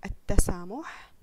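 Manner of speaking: التسامح slowly and loudly with the lam silent, as "أتّسامح"; sun letter demo. Shown as a demonstration. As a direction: drag out التسامح, swallowing the lam into a doubled ت. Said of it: "واللام الشمسية فنقول". (نطق التسامح ببطء وبصوت أعلى مع إدغام اللام في التاء)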